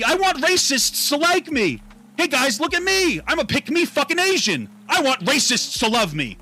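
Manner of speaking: mocking pick-me voice. Mocking someone who courts racists.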